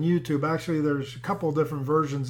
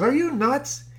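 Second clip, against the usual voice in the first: high-pitched disbelieving question; mock incredulity; 9 semitones higher, 3 dB louder, slower than usual. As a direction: act out a wife's baffled disbelief. Wife's disbelief acted out.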